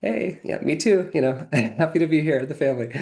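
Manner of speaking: high-pitched, delighted hello, retold; gleeful reenacted welcome; excited greeting. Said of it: "and excited. And I'm like".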